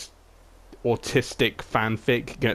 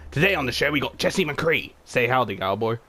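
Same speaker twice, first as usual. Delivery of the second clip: hammy game show host, half-hearted; game show host Junkrat introducing his guest; 3 semitones higher than usual. Acted. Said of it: "Junkrat scheme".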